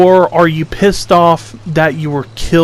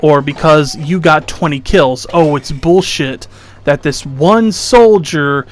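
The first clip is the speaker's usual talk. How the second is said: mildly hammed-up complainers' protest; mock whining. Mimicking people who call tanks overpowered, mock whining. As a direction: imitate sore losers griping, lightly mocking. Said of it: "And people will say".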